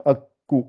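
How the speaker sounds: "akku" split by a held k; doubled k. Shown as a demonstration. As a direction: hold the k before the u of "akku". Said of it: "ça rajoute toujours".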